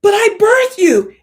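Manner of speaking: high, loud, slow outraged plea; hammed-up mother wailing; loud mock indignation, slow; mock pleading cry. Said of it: "she's gonna be like".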